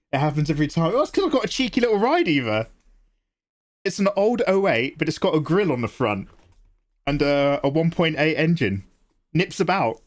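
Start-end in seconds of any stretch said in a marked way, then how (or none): 0.9-2.7 put-on high, quick British street accent; British ghetto accent. Streamer answering Eva about the car, hammed-up British ghetto accent. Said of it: "your accent becomes British ghetto". 3.8-10.0 put-on playful British street accent; British ghetto accent. Streamer showing off an old car, British ghetto accent. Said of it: "your accent becomes British ghetto".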